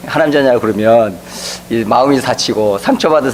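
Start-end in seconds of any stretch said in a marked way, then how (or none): 0.1-0.6 abrupt, curt "하나님 자녀야" tossed off; blunt. Shown as a demonstration. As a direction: say it bluntly without care. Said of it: "대짜고짜 그냥 막".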